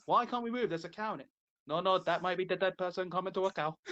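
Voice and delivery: light mock Indian accent; imitated Indian accent. Acting out drivers stuck behind a cow, imitated Indian accent. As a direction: quote bystanders in a put-on Indian accent. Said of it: "please stop doing the accent".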